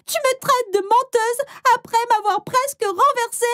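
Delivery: high, slow outraged yell; mock-wronged shout at the driver; indignant cry. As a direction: hurl it back at him. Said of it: "alors j'ai juste crié".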